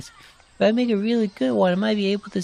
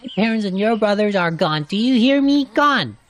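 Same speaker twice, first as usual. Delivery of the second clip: louder, insistent, hammering it home; angry outburst; 4 dB louder than usual. Acted. Telling a friend his family is gone, an angry louder outburst. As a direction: make them hear it, harsh and final. Heated argument about lost family.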